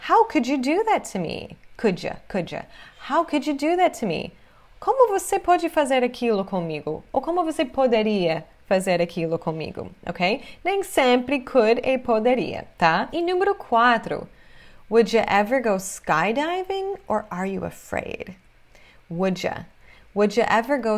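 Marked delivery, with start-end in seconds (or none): 1.8-2.6 "Could ya" run together as "kudja"; reduced pronunciation. Shown as a demonstration. Teacher drilling the linked sound for students, "Could ya" said as "kudja". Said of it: "ficou claro a pronúncia aqui". 19.1-19.6 "Would ya" linked as "wudja"; reduced pronunciation. Shown as a demonstration. Teacher isolating the linked sound for students, "Would ya" said as "wudja". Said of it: "ficou claro a pronúncia aqui".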